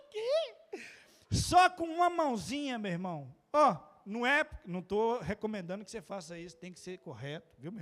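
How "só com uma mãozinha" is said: "Só com uma mãozinha" said high and loud, stressing "Só"; boasting to the church; proud exclaim. Shown as a demonstration.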